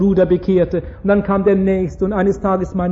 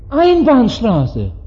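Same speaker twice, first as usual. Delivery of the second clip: policeman; 3 semitones higher, much slower than usual. Acted. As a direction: play a policeman pointing out the offence, very slowly. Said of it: "Der Polizist stoppt ihn und fragt".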